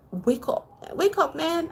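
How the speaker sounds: insistent retold wake-up call, rising pitch; waking him up. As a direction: act out nudging a sleepy friend. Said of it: "waking Ray up".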